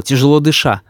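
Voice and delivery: usual speaking voice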